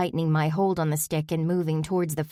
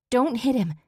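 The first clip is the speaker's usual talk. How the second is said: higher, urgent yell; 7 semitones higher than usual. A narrator's reading. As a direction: shout a warning. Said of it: "I yelled".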